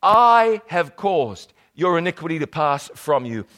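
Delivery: the verse reread at an unhurried pace; slow down and give each word its weight. Shown as a demonstration. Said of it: "I'm reading this just too fast".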